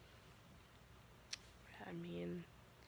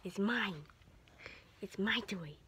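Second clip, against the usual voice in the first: playful whisper. Pretend. Teasing the dog over toy.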